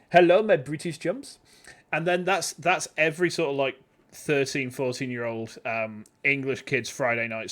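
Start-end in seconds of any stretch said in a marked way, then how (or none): 0.1-1.4 lightly French TV host greeting, laughing; a hint of a French presenter; Antoine de Caunes impression. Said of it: "Eurotrash, Anton Decor".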